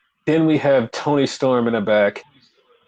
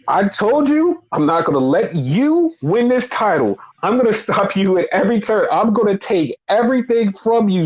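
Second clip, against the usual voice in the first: higher-pitched retold wrestling promo; mock defiant challenge; 6 semitones higher than usual. Wrestler warning his rival Swerve he'll be stopped, mock defiant. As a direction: act out a wrestler's emphatic warning, lightly.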